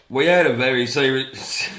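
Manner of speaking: unsure mock-British delivery; attempted British accent. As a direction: start a put-on British voice, then break off. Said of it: "I can't do it. I'm just trying to do".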